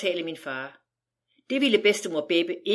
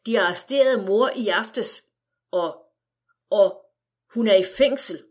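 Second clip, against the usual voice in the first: mild sob, louder on the second og; sobbing mother; 3 dB louder than usual. Acted. Mother sobbing out the arrest news to the family. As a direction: push the words out through mild tears. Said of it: "mens hun hulkede".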